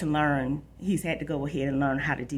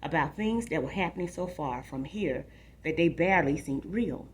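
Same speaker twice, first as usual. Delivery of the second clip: story narration. A narrator's reading. Reads a novel aloud.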